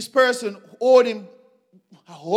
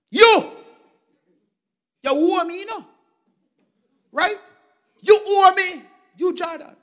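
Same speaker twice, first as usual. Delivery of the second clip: loud, high accusing shout; angry demand; 6 semitones higher, 5 dB louder than usual. Acted. Servant shouting at the man who owes him, furious. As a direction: jab each word at the debtor.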